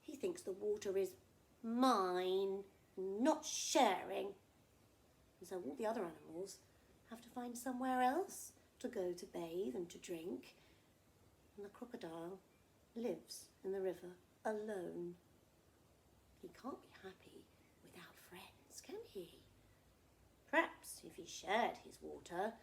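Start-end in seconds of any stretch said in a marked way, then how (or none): 1.6-4.3 selfish crocodile. Acted. Crocodile claims the river. 16.4-19.4 hushed aside to the little listeners; whisper. Acted. Storyteller whispering to children at bedtime. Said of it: "storyteller whispers aside to children".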